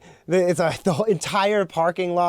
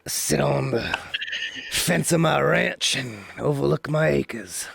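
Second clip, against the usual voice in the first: smoker's rasp. Pretend. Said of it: "smoker's voice".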